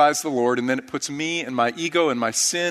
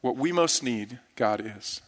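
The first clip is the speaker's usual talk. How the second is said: softer repeat, "God is." falling low; preacher's softer echo of the refrain; hushed echo; 4 semitones lower, 7 dB quieter than usual. Acted. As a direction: echo "What we most need, God is." quietly, almost to yourself.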